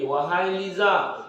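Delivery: a slow summoning call; calling angel. Acted. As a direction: call her name slowly from above. Angel calling a sick person.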